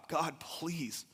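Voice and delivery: earnest acted plea to God; retold desperate praying; pleading prayer. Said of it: "We were praying to God".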